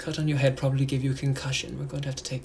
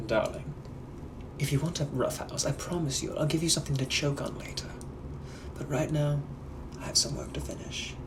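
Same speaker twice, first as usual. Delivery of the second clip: British gentleman. Acted. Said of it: "I'm also a British gentleman from the eighteen hundreds".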